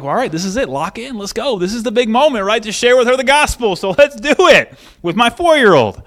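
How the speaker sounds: pep yourself up, rising in excitement; psyched up. Retold or imitated. Parent readies to share the gospel, building pep talk.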